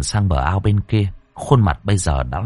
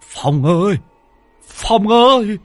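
much higher, loud, stuttering terrified cry for help; panicked high stammering shout; 4 dB louder than usual. Acted. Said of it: "ông lắp bắp".

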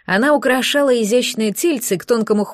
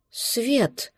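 soft hoarse wheeze, far quieter; wheezed; 6 dB quieter than usual. A narrator's reading. Newborn creature seeing light, wheezing softly. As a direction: rasp it out under breath. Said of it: "просипела липучка".

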